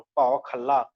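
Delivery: ਖਲਾ said as khalla with a doubled l; ਭਉ ਖਲਾ, hold the l in ਖਲਾ; addak on ਖਲਾ. Shown as a demonstration. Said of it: "ਖੱਲਾ ਸ਼ਬਦ ਪੜ੍ਹਨਾ ਉੱਤੇ ਅਧਿਕ ਲਾ ਕੇ". (ਖਲਾ ਨੂੰ ਅੱਧਕ ਲਾ ਕੇ ਖੱਲਾ ਪੜ੍ਹੋ)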